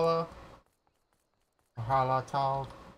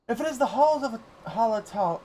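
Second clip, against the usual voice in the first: lightly voiced grave gatekeeper, ceremonial; a hint of a stately keeper of ruins; solemn gatekeeper; 10 semitones higher, 8 dB louder than usual. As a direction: announce it like an old guardian at a gate.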